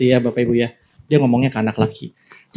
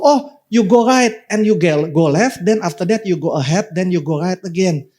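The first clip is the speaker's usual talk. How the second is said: mock English tourist; 3 semitones higher than usual. Preacher imitating a tourist answering in English. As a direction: imitate a clueless foreign tourist giving directions. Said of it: "tanya jalan sama dia ... bule".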